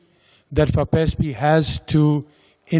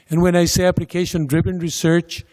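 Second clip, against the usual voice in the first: "research" given the weight in "application-driven research", said quickly; stress on research; faster than usual. Shown as a demonstration. Lecturer clarifying the funding categories for the audience, stressing "research". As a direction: lean on the word "research" to underline it. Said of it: "emphasize the word research".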